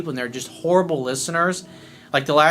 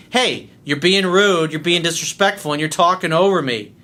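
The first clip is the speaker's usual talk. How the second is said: assertive, slightly raised voice from the chest; firm chest-voice rebuke; 3 dB louder than usual. Shown as a demonstration. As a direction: cut off a rude client firmly. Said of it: "That's why I sometimes do that with clients".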